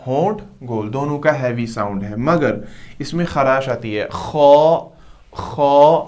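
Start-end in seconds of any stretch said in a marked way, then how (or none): 4.1-6.0 खौ loud, round-lipped, with throat rasp; heavy rasping kha. Shown as a demonstration. Teacher drills heavy खौ with a throat rasp, louder. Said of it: "इसको थोड़ा soft पढ़ना है".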